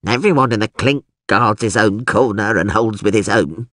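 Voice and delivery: lightly voiced old prisoner; a hint of a resigned old jailbird; old man's mumbled cell wisdom; mumbling old man. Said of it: "mumbled the hairy old man".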